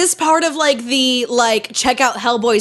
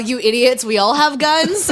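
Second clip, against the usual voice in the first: ordinary talk, nothing marked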